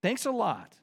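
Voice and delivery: high, loud, indignant rant; sarcastic complaint to God. Retold or imitated. Single believer griping at God, high and indignant.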